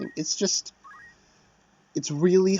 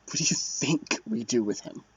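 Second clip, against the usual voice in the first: a lower, softer second soldier; second soldier's voice; 3 semitones lower, 4 dB quieter than usual. Acted. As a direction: answer like a grim underling. Second soldier answers, different voice.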